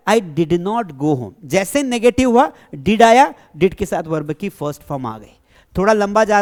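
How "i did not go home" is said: slow dictation. Shown as a demonstration. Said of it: "मैं घर नहीं गया".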